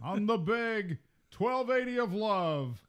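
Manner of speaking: slow, high, cheesy DJ voice; fake radio voice. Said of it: "doing the fake radio voice".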